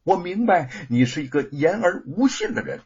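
cold, stern accusation; coldly. Acted. Husband coldly accuses wife of breaking her word. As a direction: lay the blame on her, icy. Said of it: "冷冷地说".

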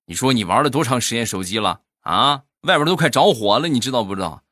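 an irked wife yelling about the phone; retold angry scolding. Wife barges in and scolds husband over his phone, mock angry. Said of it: "怒气冲冲地冲进来".

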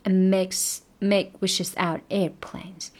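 whispered slowly, make wishes out airplanes. Shown as a demonstration. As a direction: breathe the line out slowly.

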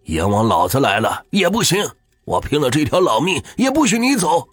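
put-on old man vowing to fight death for his wife; loud, pleading fury; fierce defiant shout. A narrator's reading. Husband refuses to let wife die.

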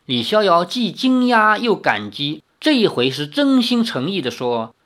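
expressive, measured novel narration; story narration. A narrator's reading. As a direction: read the tale aloud with lively intonation.

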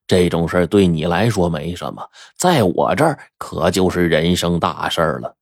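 a hint of a rueful older colleague; slowed-down, rueful confession; lightly voiced Huang Dui. Huang Dui confides his regret.

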